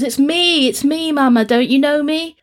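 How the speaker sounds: high, imploring mock child's voice; pleading. Moomin Troll begging his mother to know him, high and pleading. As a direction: beg your mama to recognise you.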